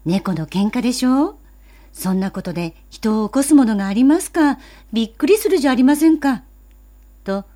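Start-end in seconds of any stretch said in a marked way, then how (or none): 0.1-6.4 scolding. Acted. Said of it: "お姉さんは翔ちゃんを叱りました".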